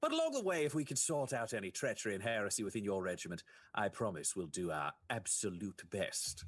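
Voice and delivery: lightly theatrical Inquisitor pledge; courteous Inquisitor. Acted. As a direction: pledge help with formal assurance. Plays Inquisitor making a promise.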